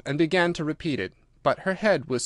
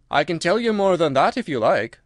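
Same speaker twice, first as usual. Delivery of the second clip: louder, brisk Gryphon; gruff Gryphon voice; 4 semitones higher, 5 dB louder than usual. Acted. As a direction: bark it out as the Gryphon.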